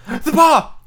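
very high, loud frantic shriek; wild cry. A narrator's reading. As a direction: cry it out wildly, pitch leaping up. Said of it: "she cried wildly".

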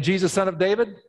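high, ringing plea; calling out again. Acted. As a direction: call out again to be heard. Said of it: "so he lets it out again".

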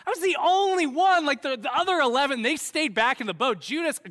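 high, loud, hammed-up bragging; Peter. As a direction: play an indignant boaster defending his brief moment of glory. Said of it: "If I'm Peter and I'm telling this story".

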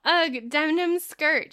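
drawn-out disdainful ugh; mock disgust. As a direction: sneer at the skirt, lightly. Reading friend's disdain.

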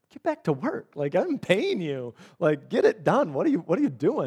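half-joking boss telling a worker to get back to work; mock scolding boss. Boss teasing a sick helper, mock stern.

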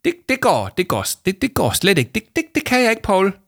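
high, loud stammering protest; panicked stammer. A narrator's reading. Jame refuses to work with Victoria, panicked stammering. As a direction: stumble over the words in rising panic. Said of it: "stammede hun og blev helt bleg".

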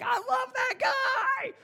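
high, loud, stretched fan squeal; squealing at the sight of Santa; screaming with joy. Retold or imitated. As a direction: lose your mind like an overexcited elf. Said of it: "I start screaming".

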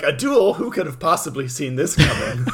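sarcastic gasp at the obvious; mock surprise. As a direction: play dumb, sarcastically amazed. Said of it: "And Yugi's like".

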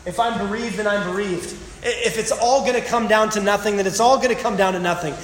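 a touch of bitter resignation; mild bitter fatalism; laced with bitterness. Retold or imitated. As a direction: shrug it off bitterly. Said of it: "Do you hear it laced with bitterness?".

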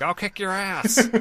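slow, high, threatening brute voice; dumb violent ogre. Retold or imitated. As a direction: growl out a threat like a thug ogre. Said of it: "a dumb half ogre prone to violence".

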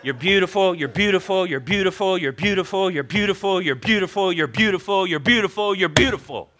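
unbroken, evenly stressed repeats; rote repetition. Pretend. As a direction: rattle it off in an identical looping tune. Mock repetition of husband's compliment.

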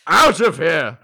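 shouted order to flee; urgent shout. Acted. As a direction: yell it as a panicked evacuation order. Urgent order to evacuate danger.

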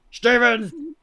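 loud, high yell of a name; director's yell. Retold or imitated. Director losing patience with Steven on a fake phone, loud yell. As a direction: imitate a director bellowing into a megaphone. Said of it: "He's, like, yelling into a megaphone".

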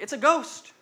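high, loud hammed-up alarm; panicked mock yell. Exhausted disciples seeing a ghost, hammed-up panicked yell. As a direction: yelp it like a spooked sailor. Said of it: "and they're like".

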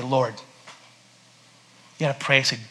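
a hushed, humble prayer. Shown as a demonstration. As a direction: pray it quietly from the heart.

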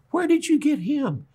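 high, exasperated disbelief; incredulous Moses. Retold or imitated. Moses to Jesus about Peter, high and incredulous. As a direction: Moses asking Jesus where on earth he found him. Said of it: "Moses wanted to say to Jesus".

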